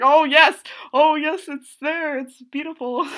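excited. Retold or imitated. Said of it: "I was just like".

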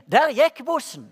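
laughing as she calls out the bad news; mother's call. Mother telling son the bus has left, laughing call. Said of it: "Og så gikk det litt tid".

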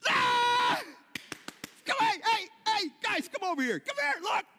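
high loud cheer and calling over; excited calling out. Pretend. God pictured as a parent calling everyone to see, high excited calling. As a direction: shout with delight, call everyone to look.

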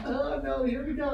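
high, laughing oh no; mock dread. Real, not acted. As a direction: brace yourself with a laugh. Husband braces for wife's correction.

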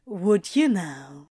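slow, teasing smirk; smirking tease. Acted. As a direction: drawl it out with a smirk. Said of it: "put on a show with a smirk".

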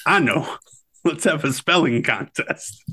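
lightly voiced teasing gunslinger, pitch lifting after the start; playful movie-quote impersonation, lightly done; Doc Holliday. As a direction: needle a card opponent with a hint of a character voice. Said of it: "And Doc goes".

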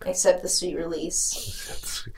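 slow, hushed, unvoiced murmur; mock-dramatic whisper. Joking that nothing can calm her but this, dramatic whisper. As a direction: whisper it like a longed-for deliverance.

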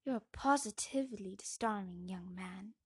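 lightly posh English voice. Acted. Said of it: "In a posh voice".

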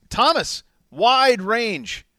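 pumped, can't believe the luck; excited. Real, not acted. Excited about the draft board.

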